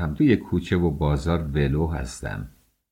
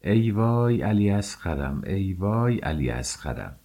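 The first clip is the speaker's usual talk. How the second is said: put-on keening for the lost child, the second wail fading; a grieving cry that dies away; wailing lament. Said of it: "فریاد زد و به سینه کوبید".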